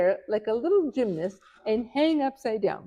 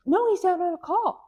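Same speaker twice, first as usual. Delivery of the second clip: mock secretary; 9 semitones higher than usual. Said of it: "secretary answers phone".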